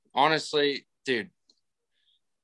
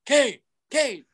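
much higher mock fan voice calling; pestering fan; 13 semitones higher, slower than usual. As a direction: beg for the autograph in a high voice. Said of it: "He's like".

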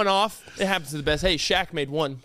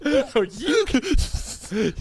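sarcastic; 7 semitones higher, much slower than usual. Real, not acted. Sarcastic drawn-out reply.

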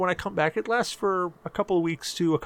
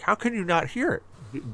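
higher, slow imitation of a baffled listener; retold disbelief; 5 semitones higher, slower than usual. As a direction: mimic someone who can't believe it, drawn out. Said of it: "And they're like".

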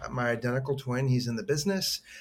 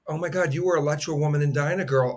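starstruck; 3 semitones higher, faster than usual. Retold or imitated. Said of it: "I just remember looking at her going".

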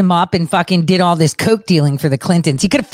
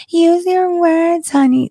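put-on high, slow, sugary talk to a child; condescending sweet talk; 11 semitones higher, slower than usual. Mocking a condescending woman, sugary slow. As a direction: talk down like to a toddler. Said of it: "bends down and says".

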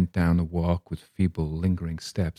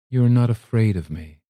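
strange quiver; 3 semitones higher, 4 dB louder than usual. Acted. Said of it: "with a strange quiver in her voice".

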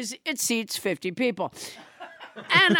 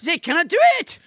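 put-on French accent; 5 semitones higher, faster than usual. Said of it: "French Trump".

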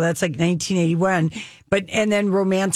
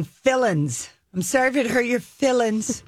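a singer's voice; 4 semitones higher than usual. Retold or imitated. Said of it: "But say it like Whitney".

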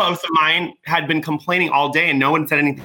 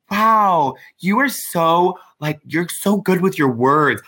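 slow, drawn-out condescending wow; patronizing praise; much slower than usual. Retold or imitated. Strangers praising her ex, slow and patronizing. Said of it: "white people would regularly tell him".

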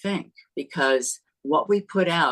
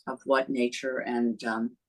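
talking through chapped lips; dry, chapped lips on the words. Real, not acted. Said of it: "I've got some chapped lips here".

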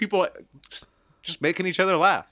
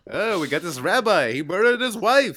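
warm questioning rabbi. Retold or imitated. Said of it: "that's my rabbi impression".

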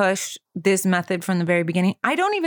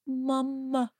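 put-on pleading toddler; 5 semitones higher, 6 dB quieter, slower than usual. Daughter reaching out crying.

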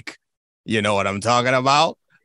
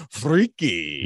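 imitating old Giannis; 4 semitones lower than usual. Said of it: "He's just gonna be like a gray-haired guy just going".

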